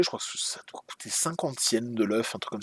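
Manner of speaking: quick unsure whisper; whispered aside. Real, not acted. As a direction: drop to a whisper, thinking aloud. Unsure price aside while touring.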